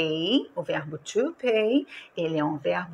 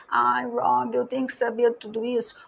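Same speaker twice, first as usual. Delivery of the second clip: slightly higher, quicker mock whine of a student; lightly voiced student complaint; 4 semitones higher than usual. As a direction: lightly act a pupil protesting to the teacher.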